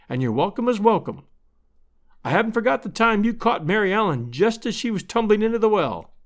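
lightly voiced hostess, insisting kindly; hospitable neighbour woman. Missus Stetson invites Lovell.

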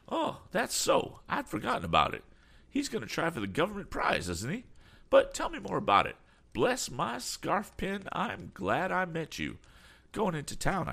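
high-pitched effusive greeting; glad, excitable eccentric. Acted. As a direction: greet a friend in a fussy high voice. Damon chatters to Tom.

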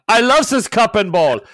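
high, loud, hammed-up childish wonder; mock fascinated kid. Kid gushing to Father over a cup and ball, mock delighted.

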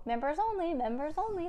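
high-pitched parrot squawk. A narrator's reading. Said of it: "the parrot squawked".

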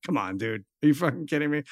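a lightly voiced scoff from a stranger; mumbled who-are-you-kidding; incredulous homeless guy. Voicing homeless guy's reaction.

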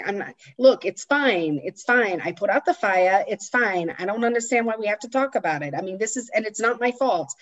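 lightly imitated Long Island accent. Wife excusing the fire to her husband, light Long Island accent. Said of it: "she's got this amazing Long Island accent".

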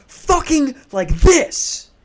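high, punched mock yell; imitated yelling. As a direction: burst out mid-sentence like a screaming neighbour. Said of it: "they're yelling at each other".

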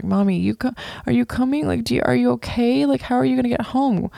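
put-on high, anxious little-boy voice; imitating scared child. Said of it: "Lyric was super scared".

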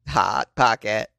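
slow, stretched jingle-style tagline; commercial slogan. Acted. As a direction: draw it out like an ad slogan. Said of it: "he's doing the commercial".

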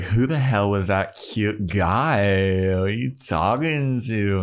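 slow, teasing put-on voice; pry like a gossiping friend; lightly voiced curious Willow; nosy Willow. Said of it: "Willow's like".

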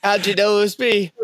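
high, giggling mock villain line; laughing villain. Unmasked gardener to the kids, laughing high. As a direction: squeak it through a laugh.

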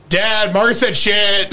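slow, drawn-out mock child tattle; lightly voiced kid telling on a sister; tattling little kid. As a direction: call to Dad like a small child. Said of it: "I was a little kid".

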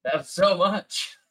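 slow, high words squeezed out through laughter; can barely get it out for laughing; laughing hard. Real, not acted. Host cracking up after the Boston Benny voicemail, laughing hard. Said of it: "My cheeks actually hurt from laughing".

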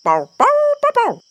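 high cartoon puppy bark. Puppy barks.

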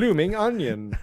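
mock Aussie twang; hammed-up Australian; put-on Australian accent. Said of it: "I love your Australian accent".

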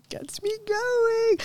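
high breathy whisper, slow. Shown as a demonstration. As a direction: whisper it teasingly. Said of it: "repeated as whisper".

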